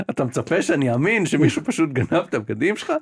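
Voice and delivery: a lightly voiced doubting cop; skeptical policeman. Game cop doubting the daughter's excuse, lightly voiced. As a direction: question her story like a suspicious officer. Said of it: "הוא אומר".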